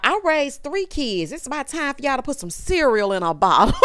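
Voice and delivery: a hint of a bossy grandmother; grandma voice. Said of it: "Sounding just like a grandma".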